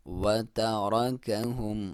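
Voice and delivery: slow وَتَرَكَهُمْ with a thick ra; slow tajweed demo; heavy ra. Shown as a demonstration. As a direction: recite وَتَرَكَهُمْ slowly, ra heavy. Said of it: "موٹا پڑھیں گے را کو".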